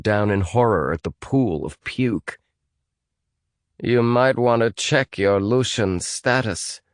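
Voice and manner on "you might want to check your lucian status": slow, higher moan; a hurt woman groaning the words. Acted. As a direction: moan it out in pain. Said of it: "moaned Nellie".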